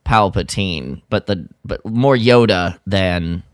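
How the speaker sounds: ordinary delivery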